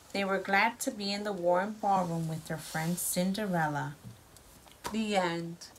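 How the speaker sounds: lively storybook read-aloud; reading to children. A narrator's reading. Parent reads story to child.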